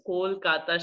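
Kolkata with a clear, rounded KOL; corrective pronunciation. Shown as a demonstration. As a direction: say "Kolkata" as a correction, O in the first syllable. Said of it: "we are gonna correct Shreya's pronunciation".

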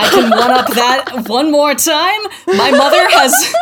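talking through laughter; laughing as she speaks. Real, not acted. Laughing while telling story.

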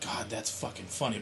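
low, soft deadpan appreciation; understated, unlaughing reaction; amused without laughing. Retold or imitated. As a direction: act out silent amusement, keeping it dry. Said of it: "but I won't actually laugh out loud".

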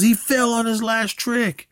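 slow, high, imitated complaint; mock angry yell. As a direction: whine it slowly like a sore loser. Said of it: "he's yelling about Derek".

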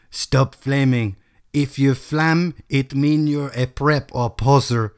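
author's note read out in a put-on teen voice. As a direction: scold the readers in a silly sulky voice. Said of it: "the voice I just put on".

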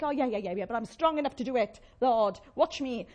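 loud, mock-cocky dismissal; overconfident brush-off. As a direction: brush off advice with swagger. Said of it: "Don't think".

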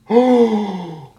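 loud, high, startled "Oh!"; a loud high cry of surprise; startled shout. Acted. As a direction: burst out in shock. Shield face comes alive.

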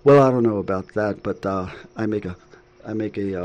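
lightly imitated New York accent; a hint of a chatty New York accent. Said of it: "And in her New York, uh, accent".

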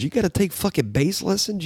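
high pitched disbelief; incredulous. Retold or imitated. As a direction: scoff at it in disbelief. Incredulous rant.

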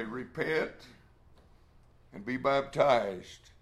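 slow, firm and deliberate. Retold or imitated. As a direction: lay it down firmly, word by word. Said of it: "He said very firmly".

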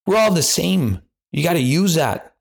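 ordinary talk

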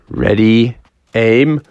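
long, drawn-out call of fire; firing command. Acted. Storyteller counting down Froggy's last throw, drawn-out firing command. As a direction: stretch it out like a range command. Calls the shot at the game.

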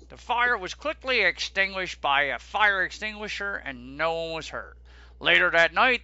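formal newsreader read; news reporter voice. Retold or imitated. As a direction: read it like a TV anchor. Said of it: "That's your news reporter voice?".

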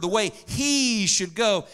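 slow phrase with HE stretched out; deliberate, HE held long; stress on HE. Shown as a demonstration. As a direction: linger on "he" in "the way he should go". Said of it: "literally this word".

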